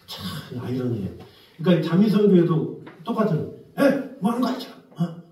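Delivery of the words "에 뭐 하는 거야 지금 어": high-pitched mock scolding; imitated shouting. Cult pastor ordering members to quit their jobs, imitated yelling. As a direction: hector the flock in short, raised bursts. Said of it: "막 이렇게 소리 지르는 거예요".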